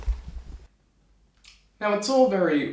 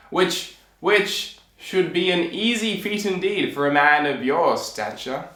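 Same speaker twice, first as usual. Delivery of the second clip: pompous king. Acted. King setting the tailor a task to kill giants, pompous. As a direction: proclaim grandly with weighty pauses.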